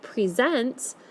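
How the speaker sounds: "present" said pre-ZENT; stress on the end. Shown as a demonstration. Teacher giving the verb example, stressed pre-ZENT. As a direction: verb form "present", pree-ZENT, weight on last syllable. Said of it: "if the bold part is at the end".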